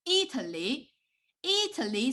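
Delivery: Italy broken into three emphasized syllables; Italy sounded out as I-ta-ly. Shown as a demonstration. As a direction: stress each syllable of Italy. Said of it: "break down of each syllable, emphasize it".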